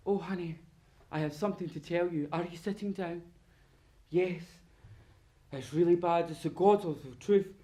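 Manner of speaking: a touch of solemn movie confession; lightly hammed-up tearjerker dialogue; old movie melodrama. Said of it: "all the movies where you have to go".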